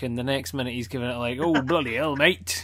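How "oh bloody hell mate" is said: mock Cockney. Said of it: "what part of England they're coming from".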